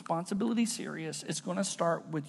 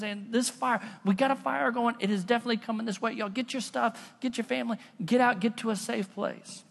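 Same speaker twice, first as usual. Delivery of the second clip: higher-pitched, acted urgent plea; urgent warning; 4 semitones higher than usual. Clowns telling villagers to flee the fire, urgent warning. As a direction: hurry everyone out, dead serious. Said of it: "really serious about this message".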